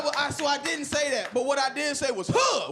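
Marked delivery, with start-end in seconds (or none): 2.3-2.7 sharp higher loud grunt; sudden loud huh. Retold or imitated. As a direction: bark out a tough huh. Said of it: "that sound was very loud".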